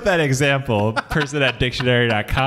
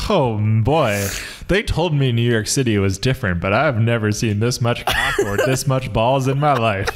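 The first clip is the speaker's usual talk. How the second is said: Indiana tourist; 2 semitones lower than usual. Pretend. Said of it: "a tourist from Indiana".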